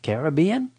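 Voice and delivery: questioning "Caribbean", rising, as care-uh-BEE-un; stress on BEE. Shown as a demonstration. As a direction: ask "Caribbean" with weight on the third syllable, BE. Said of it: "don't even know how to say it".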